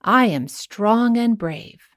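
slow affirmation. Shown as a demonstration. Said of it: "Today's affirmation is".

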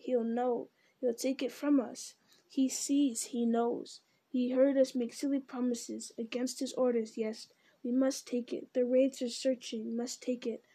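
lightly voiced hissing creature arguing with itself; creepy split-self Gollum muttering. Gollum tempting Smeagol.

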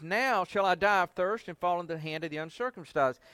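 loud, indignant demand; a touch of arrogant grievance; entitled complaint. Retold or imitated. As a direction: complain like he's owed it. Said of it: "He says".

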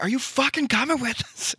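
calling to a friend across the road, high and yelling; yelled across the street. Retold or imitated. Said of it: "I'm yelling across the thing".

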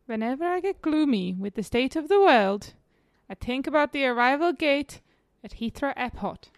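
Cypriot accent attempt. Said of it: "that just sounds all sorts of places".

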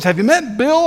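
high-pitched imitation Scottish accent; little Scottish accent. Scottish church member introducing someone, imitated Scottish accent. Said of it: "has a little Scottish accent".

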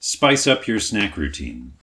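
slow, hammy ad read; cereal mascot. Pretend. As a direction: sell it like a cartoon mascot. Reading snack bag copy aloud.

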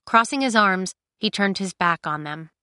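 usual speaking voice

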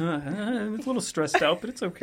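lightly mocked stressed-out guest; hesitant, mildly strained imitation; Noosh. Teasing a co-host by voicing them, mock stressed. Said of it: "Noosh is like".

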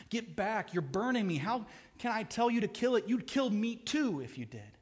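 high, loud fearful protest; frightened ghost. Acted. Ghost pulls back from the burning angel, high and frightened. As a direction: push him away in alarm.

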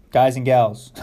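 calling the class to order; loud, firm classroom call; teacher voice. Shown as a demonstration. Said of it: "that's my teacher voice".

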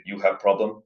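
half-successful Russian accent imitation. Reviewer showing how Yuri talks, imperfect Russian accent. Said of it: "in his thick, uh, Russian accent".

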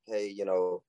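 low, easy "hey, you know"; confident. Acted. Man coaching a friend to approach girls, confident. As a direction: say it with quiet confidence, no drawn-out hesitation. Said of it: "say it with confidence. Say it like".

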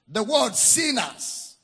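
WORD called out loud and slow; loud repeat. Shown as a demonstration. Preacher repeats to congregation, slow loud emphasis.

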